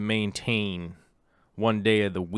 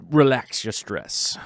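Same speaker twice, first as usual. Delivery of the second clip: drawn-out reassurance; 2 semitones higher, 4 dB louder, slower than usual. Real, not acted. Soothing worried viewers, drawn out.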